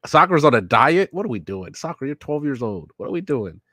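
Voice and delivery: high, loud burst of disbelief, then easing; incredulous. Real, not acted. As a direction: react appalled, pitch leaping on the key words. Appalled at a child dieting.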